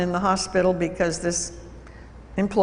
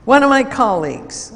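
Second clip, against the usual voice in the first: irritated; 4 semitones higher, 6 dB louder than usual. Retold or imitated. Employee answers, still worked up.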